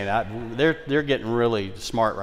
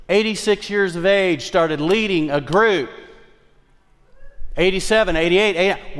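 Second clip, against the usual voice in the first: triumphant; 6 semitones higher, 4 dB louder than usual. Acted. Triumphant repeat.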